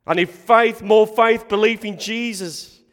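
loud, urgent preacher's plea; desperate. Acted. Father realizing he needs faith, desperate. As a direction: plead forcefully, hammering the need for faith. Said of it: "He realizes in his desperation".

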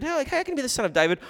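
quick, high-pitched puzzled question. Retold or imitated. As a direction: blurt it out fast and high, as if baffled. Voicing the puzzled question about Christ.

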